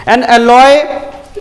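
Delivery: slow, drawn-out reading with held word endings; question read-out. Real, not acted. Teacher reading an exam question to students, slow read-out. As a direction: read it slowly, stretching key words.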